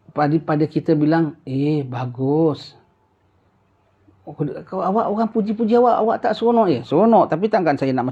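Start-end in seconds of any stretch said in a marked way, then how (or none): 1.5-2.7 slow, drawn-out modest reply; mild mock modesty. Acted reply when praised. 4.7-6.7 higher, quick teasing question; teasing questioner. Acted.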